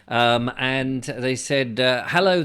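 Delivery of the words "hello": put-on Indian accent. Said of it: "they're in their Indian accent".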